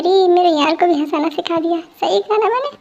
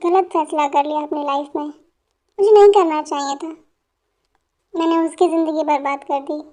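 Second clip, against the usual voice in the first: put-on drunk and remorseful. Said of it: "एक गायक ने बहुत ज़्यादा पी ली है".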